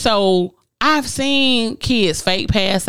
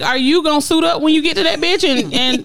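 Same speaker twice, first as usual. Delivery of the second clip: incredulous rant; 6 semitones higher than usual. Real, not acted. Ranting about date's excuse.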